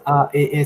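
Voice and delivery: A and E on a level mid pitch, spaced out; tone demo. Shown as a demonstration. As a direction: sound out each vowel on the mid tone. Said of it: "ça se prononce".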